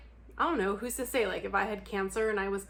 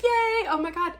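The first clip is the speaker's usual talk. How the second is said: high, louder gushing with a gasp; mock excitement; 8 semitones higher, 5 dB louder than usual. Cheering a friend who might finally get sober, overexcited. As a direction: gush like it is finally the moment.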